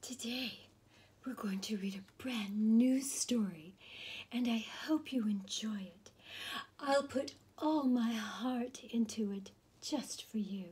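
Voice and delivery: ASMR whispered story reading; whispered storytelling. Acted. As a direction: whisper the story like a bedtime secret. Whispering reader throughout.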